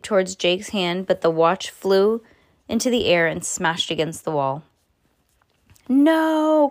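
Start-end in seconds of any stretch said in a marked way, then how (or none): 5.9-6.7 anguished cry. Acted. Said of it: "cried Hal".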